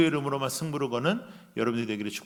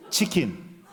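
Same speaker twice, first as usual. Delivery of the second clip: chuckled chicken; 3 semitones lower, 3 dB louder, much slower than usual. Shown as a demonstration. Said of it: "영어는 더 심해".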